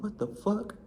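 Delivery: high, hushed incredulous reaction; retold shocked disbelief. Inmate reacts to unwanted proposal, incredulous. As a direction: squeak it out, softly appalled.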